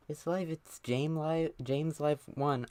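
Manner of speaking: high, slow excited announcing; thrilled reveal, pitch way up. Real, not acted. Excited reveal, first take.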